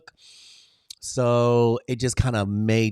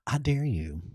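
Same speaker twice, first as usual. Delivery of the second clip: soft dare; 2 semitones higher, 6 dB quieter than usual. Acted. To her live viewers, a hushed soft dare. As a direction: drop to a softer, hushed dare.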